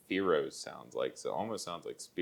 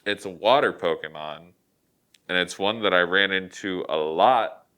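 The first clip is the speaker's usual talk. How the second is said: muffled, talking into hand; hand over mouth; 7 dB louder than usual. Real, not acted. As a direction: speak through your hand. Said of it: "I'm talking into my hand".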